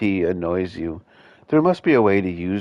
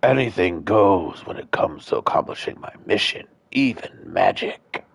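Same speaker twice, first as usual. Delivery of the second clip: Headless Horseman. Acted. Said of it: "how the Headless Horseman voice does".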